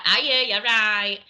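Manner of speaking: broad Mancunian demo; Greater Manchester accent. Shown as a demonstration. Showing how Oldham differs, Greater Manchester accent. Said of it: "Greater Manchester's like".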